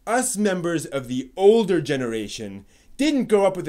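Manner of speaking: smug elder lecturing the youth; mock pompous. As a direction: puff up and lecture on "didn't". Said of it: "someone has a chip on, on their shoulder".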